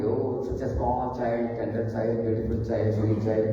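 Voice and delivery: slow, soft doting parent voice; cooing over baby. Retold or imitated. Parent doting over a small child, slow soft cooing. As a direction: coo it gently like admiring a newborn.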